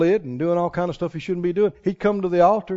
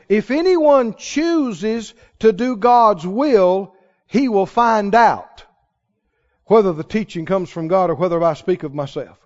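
slow scripture reading; slower than usual. Real, not acted. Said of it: "Listen to the N I V on this".

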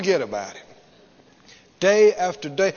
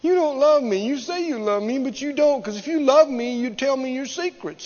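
mildly whiny, higher-pitched reproach; mock crying woman; 4 semitones higher than usual. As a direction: lightly imitate a tearful, nagging lover. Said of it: "She's crying".

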